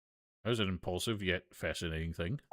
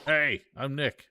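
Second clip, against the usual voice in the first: louder, drawn-out greeting to the mic; 5 semitones higher, 6 dB louder, slower than usual. Acted. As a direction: call it out slowly so the mic picks it up. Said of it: "I'm not saying it loud enough".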